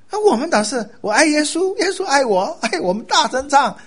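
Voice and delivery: high, loud, exuberant proclamation; loud proud declaration. Acted.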